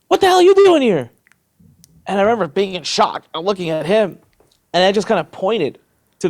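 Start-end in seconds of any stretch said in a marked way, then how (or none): 0.1-1.1 high, loud imitation of astonishment; amazed fan. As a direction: blurt it out like a stunned fan. Guard amazed to see him.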